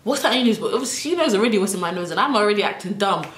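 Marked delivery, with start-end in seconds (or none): 0.0-0.6 high demanding mum voice; stern mom question. Retold or imitated. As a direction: interrogate like a mother. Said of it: "She's like".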